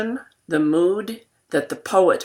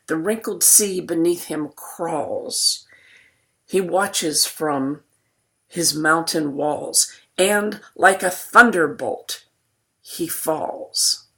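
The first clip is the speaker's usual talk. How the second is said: poem reading; slower than usual. Acted. Reads poem aloud.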